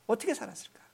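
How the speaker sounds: quiet reflective echo of the question; hushed echo. Real, not acted. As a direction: repeat it almost under the breath. Soft echo of rhetorical question.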